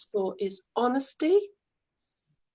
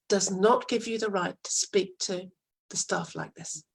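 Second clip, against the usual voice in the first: calm firm statement. Shown as a demonstration. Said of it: "Just state it calmly".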